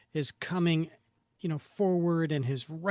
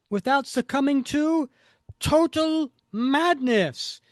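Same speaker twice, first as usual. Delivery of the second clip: theatrical villain speech building louder and higher; hammed-up comic-book menace; gloating villain; 4 semitones higher, 6 dB louder than usual. Reads villain's dramatic speech.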